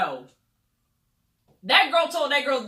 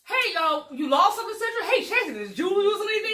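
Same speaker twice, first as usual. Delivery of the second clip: 1 teasing hints; 7 semitones higher than usual. Retold or imitated. Malaysia dropping hints, acted out.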